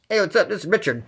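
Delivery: lightly imitated impostor greeting; Richard impression. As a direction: pose lightly as the cellmate on the phone. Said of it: "To match Richard's voice?".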